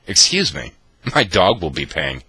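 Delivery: loud mock-commanding announcement; friend taking charge. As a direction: lightly voice her ordering the waiter. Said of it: "and she goes".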